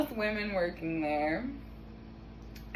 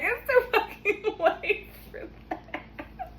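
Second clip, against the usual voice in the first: under-breath aside; 13 semitones higher, slower than usual. Retold or imitated. Inner aside during injury chaos.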